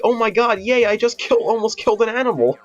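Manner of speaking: put-on high, gleeful kid voice; imitating a thrilled ten-year-old; happy little kid. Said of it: "He's like".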